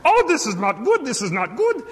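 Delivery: high-pitched frantic worker voice; panicked hotel worker. Retold or imitated. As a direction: fret loudly in a comically high voice. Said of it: "began to walk back and forth".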